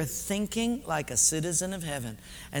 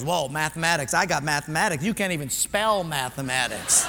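low-pitched, self-assured aside; acted cocky contestant; smug confidence; 5 semitones lower than usual. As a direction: drop low, sure of winning. Smug applicant in joke.

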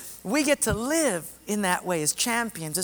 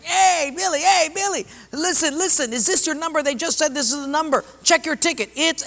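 excited shout; 8 semitones higher than usual. Retold or imitated. Friends rushing in to wake Billy, excitedly shouting. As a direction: burst in shouting the good news.

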